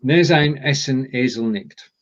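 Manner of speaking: "Ne sein" said with a ZINE ending where the L belongs; slow reading, "Ne sein" as neh-ZINE; mispronounced Nesseln. Shown as a demonstration. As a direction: stumble on "Ne sein", missing the L. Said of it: "Right, that's an L".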